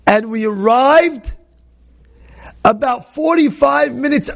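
mock pilot announcing the early landing slowly; airline pilot announcement. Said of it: "El Al made an announcement on the loudspeaker".

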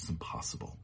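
faint, stunned whisper; whispered disbelief. Retold or imitated. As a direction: barely breathe the words, overwhelmed. Son repeats in disbelief.

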